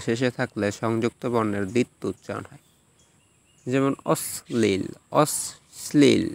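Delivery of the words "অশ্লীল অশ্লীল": very slow অশ্লীল as "osh-shlil"; doubled consonant. Shown as a demonstration. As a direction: split অশ্লীল with sh on both sides. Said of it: "এখানে দুইবার উচ্চারণ হয়েছে".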